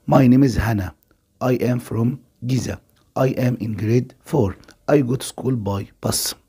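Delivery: slow, deliberate dictation pace, each word clear; slow listening-test read. Shown as a demonstration. Teacher reads the listening passage to pupils, slow and deliberate. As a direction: read it out slowly like an exam recording. Second reading of text.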